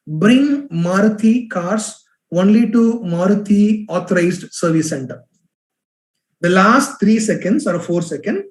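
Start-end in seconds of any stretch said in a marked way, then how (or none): 0.1-5.2 powerful ad voiceover. Retold or imitated. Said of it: "very powerful male voiceover".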